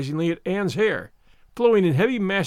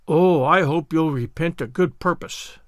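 severe; slower than usual. Acted. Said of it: "said Marilla severely".

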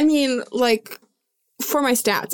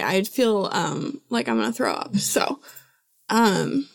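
quiet, queasy and unwell; feeling sick. Real, not acted. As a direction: talk like you're about to throw up. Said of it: "I'm a little quiet 'cause I just really don't feel good".

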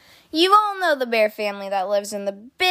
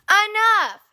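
sharp high shout, a little louder; a mother at the end of her patience; Mama stops the kids' quarrel with a sharp shout; 10 semitones higher, 3 dB louder than usual. A narrator's reading. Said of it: "she shouted".

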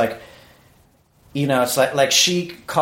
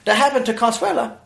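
high put-on voice of his wife; high mock worried wife; 9 semitones higher than usual. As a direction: squeak it up as the fretting wife. Imitating wife's excuse.

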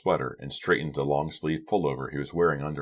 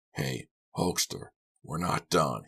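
mean it, no more play; threatening; 3 dB quieter, slower than usual. Acted. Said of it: "didn't sound playful anymore".

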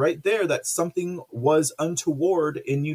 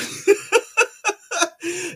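squealing laugh, much higher; high burst of laughter; 4 dB louder than usual. Real, not acted. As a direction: break into a high helpless laugh. Laughing about accent joke.

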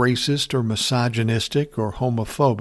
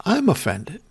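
mock offended; 7 semitones higher than usual. Mocking her complaint back.

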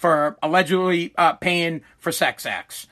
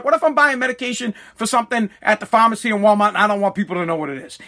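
fast, imitated indignant father; retold pissed-off rant; faster than usual. Son retelling father's Walmart complaint, fast mock indignation. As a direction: rattle off a mild mock protest. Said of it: "my dad was pissed".

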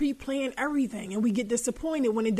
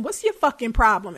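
louder mock snap; mock snap at partner; 6 dB louder than usual. To an annoying partner: irritated mock snap. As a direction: bite it off like a fed-up partner. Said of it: "you asking him".

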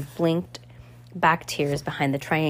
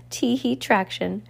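put-on higher, giggling little girl's chant, louder at the end; sing-song giggle like a gleeful child; giggly cry; 6 semitones higher, 4 dB louder than usual. A narrator's reading. Spoiled girl skipping off with the villains, giggling. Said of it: "Carmelita cried".

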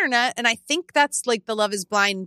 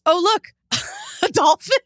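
imitated feeble excitement; 9 semitones higher than usual. Mimics man breaking awkward silence.

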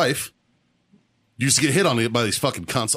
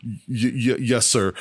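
retold stammer; 3 semitones lower, much slower than usual. Cowed midshipman answers in retold story.

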